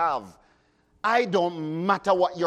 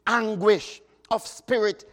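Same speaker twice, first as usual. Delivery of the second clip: solemn recited hymn verse; hymn recitation. Acted. Preacher reciting a hymn to the congregation, solemn. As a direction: intone the hymn words with feeling.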